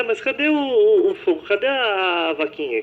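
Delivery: put-on high-pitched, puzzled little-kid voice; imitated child. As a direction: ask like a child looking for the characters. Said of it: "tem criança que vai".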